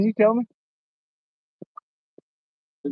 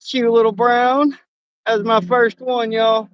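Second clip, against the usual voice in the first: higher, bubbling with delight; excited; 5 semitones higher than usual. Real, not acted. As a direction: gush over the little fish. Delighted over first catch.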